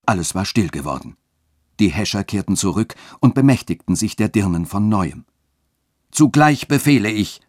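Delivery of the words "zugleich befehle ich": higher, loud proclamation; raised voice. A narrator's reading. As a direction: command over the crowd. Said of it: "mit erhobener Stimme".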